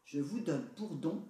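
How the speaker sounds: lightly voiced fairy. A narrator's reading. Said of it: "poursuivit la fée".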